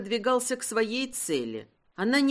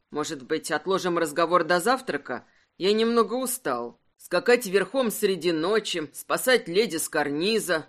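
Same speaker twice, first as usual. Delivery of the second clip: a hint of a tired, amused husband, lower; lightly voiced husband, lower and weary; 4 semitones lower than usual. Husband putting off wife's talk, lightly lower and weary.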